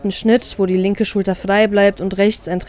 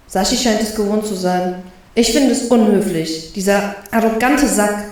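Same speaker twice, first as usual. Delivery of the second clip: scornful. Acted. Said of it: "mit einem abwertenden Schnauben".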